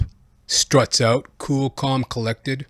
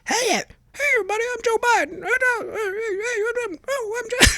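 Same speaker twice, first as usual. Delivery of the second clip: very high cartoon voice, losing his words; mock Joe Biden forgetting his own name, squeaky; South Park Biden mockery; 4 dB quieter, faster than usual. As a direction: fumble the intro in a squeaky cartoon pitch. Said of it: "the way South Park does it".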